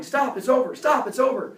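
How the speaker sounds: high, loud plea to stop; imitated yelling. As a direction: yell as if calling off a fight. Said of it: "he kept yelling".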